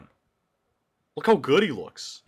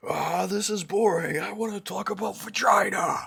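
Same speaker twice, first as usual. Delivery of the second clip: mocking voice; 9 semitones higher than usual. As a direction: imitate a whiny bored voice. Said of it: "How's it go?".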